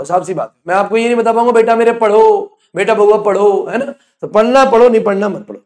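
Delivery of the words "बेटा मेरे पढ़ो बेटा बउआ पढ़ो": slow, drawn-out sweet-talk; mock coaxing. Teacher imitating sweet-talk to students, mock coaxing. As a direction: coax mockingly, stretching the words. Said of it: "चिकनी चिपड़ी नहीं कर पाऊंगा".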